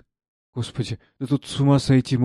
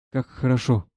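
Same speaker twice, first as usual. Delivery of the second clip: happy smile. Acted. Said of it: "счастливо улыбаясь". (счастливо, с улыбкой)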